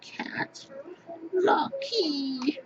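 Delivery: whispered, calling the cat by name; hushed call to the pet cat; soft whisper to the cat. Real, not acted. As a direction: coax the cat in a hush. Calling softly to his cat.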